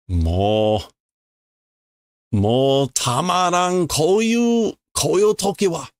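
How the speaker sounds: a hint of a worn-out traveler; fed-up character. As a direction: show he can't take it anymore.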